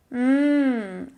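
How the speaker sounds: long appreciative hum at food; savouring "mmm". Pretend. Teacher moving on to another food, savouring hum. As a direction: let out a hungry, drawn-out "mmm". Relishing pictured food before next word.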